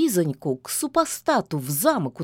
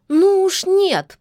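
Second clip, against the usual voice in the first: much higher, louder, slow protest; indignant outburst; 12 semitones higher, 7 dB louder, slower than usual. A narrator's reading. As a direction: leap up and refuse loudly. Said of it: "подскочила Лизавета". (возмущённый выкрик, громко и протяжно)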